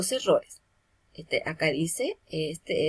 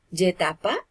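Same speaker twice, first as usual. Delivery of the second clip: "Yetapa" with the voice landing on the last A; accent the final A of Yetapa; stress on final A. Shown as a demonstration. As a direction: say "Yetapa" as a model, stressed on its ending. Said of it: "en la A se acentúa la voz".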